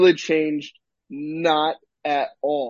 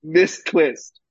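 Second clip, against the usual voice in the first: incredulous demand. Retold or imitated. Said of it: "stared him down ... being like".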